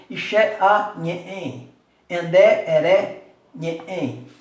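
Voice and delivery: loud drill recitation, syllable by syllable; recited conjugation. Shown as a demonstration. Teacher drills Tupi verb forms aloud for the class. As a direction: chant the forms for the class to copy. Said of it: "como é que você faz".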